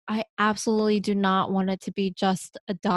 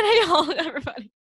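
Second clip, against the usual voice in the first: put-on Southern accent; 8 semitones higher, much faster than usual. Explaining her slip to everybody, laughing Southern accent. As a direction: laugh through a Southern hello. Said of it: "if you have a Southern accent".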